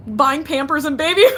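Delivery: reading out, breaking into a laugh. Real, not acted. Streamer reading a funny chat comment, starting to laugh. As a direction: crack up before the last word.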